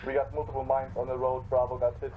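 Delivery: loud, urgent radio call; urgent callout. Acted. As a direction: call it out loud over the noise. Calling out mines and casualties.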